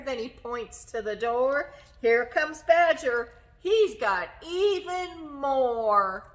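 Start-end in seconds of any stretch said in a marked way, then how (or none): 2.0-6.3 excited announcement. Acted. Hare announces Badger.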